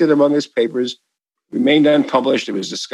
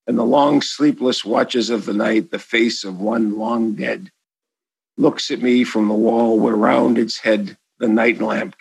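slow, hushed poetic reading; poem recitation; 2 semitones lower than usual. Acted. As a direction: read it like a solemn poem. Recites the sonnet.

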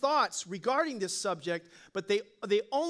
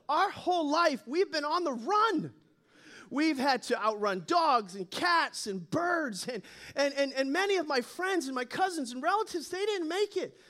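higher-pitched, put-upon little mice; lightly acted, earnest mouse complaint; harried mice; 5 semitones higher than usual. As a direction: plead your hardship, pitch climbing. Mice plead their hard life to God.

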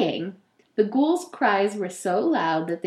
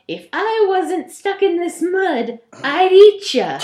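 higher, louder menacing ghoul; 9 semitones higher, 7 dB louder than usual. Acted. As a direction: call out the threat like a ghoul. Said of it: "The ghoul called out".

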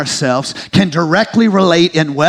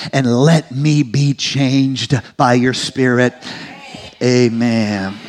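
prayer; 2 semitones lower than usual. Acted. Pastor praying for his congregation, earnest prayer. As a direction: pray it humbly, asking for cleansing.

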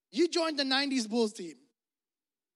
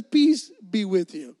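slow and steady, louder, settling the room; calm reassuring; 9 dB louder, slower than usual. Retold or imitated. Jesus calming his jumpy disciples, slow reassuring greeting. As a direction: soothe nervous friends, unhurried. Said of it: "He says".

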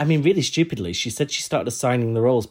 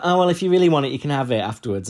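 higher, louder opening that settles back; mock polite; 4 semitones higher, 4 dB louder, faster than usual. Cheddar offering the role to Dakota, mock polite. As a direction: imitate an over-polite British offer. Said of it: "God, they were so polite".

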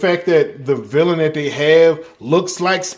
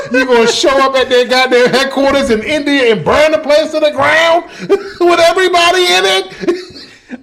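laughing; 9 semitones higher, 4 dB louder than usual. Real, not acted. Absurd escalation, laughing.

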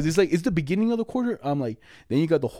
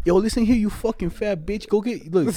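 acted angry tirade, pitched up; mock mad telling-off; 4 semitones higher than usual. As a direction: play at chewing him out. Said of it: "talk to you all mad and shit".

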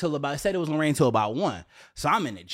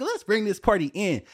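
normal talking voice

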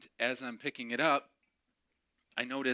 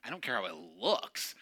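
mocking echo; 3 semitones lower than usual.

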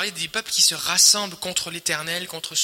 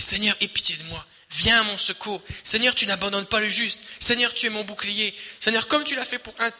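heartfelt cry; 4 semitones higher than usual. Shown as a demonstration. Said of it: "comme si c'était des petits cris".

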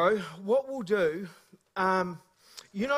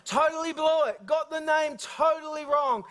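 amused self-mockery; 5 semitones higher than usual. Real, not acted. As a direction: cheerfully own up to the blunder. Laughing at his own failure.

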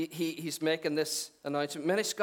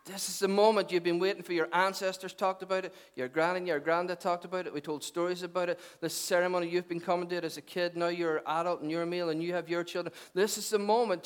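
raised pitch, driving sermon delivery; impassioned preaching; 3 semitones higher than usual. Acted. Preacher voicing Jesus to a waiting crowd, impassioned. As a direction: press the announcement on the congregation, building.

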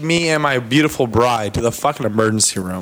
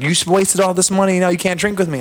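higher, lightly accented mock scold; a half-hearted European-accent nag, pitched up; 6 semitones higher than usual. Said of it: "she was yelling at me".

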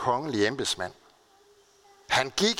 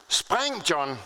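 retold shout; 3 semitones higher than usual. Father calling up to his trapped son, retold shout. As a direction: call up to the boy, restrained. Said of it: "Han råbte op til drengen".

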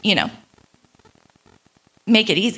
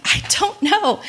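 much higher, helpless I-don't-know; clueless; 10 semitones higher than usual. Retold or imitated. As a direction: squeak it out clueless. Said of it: "And I'm like".

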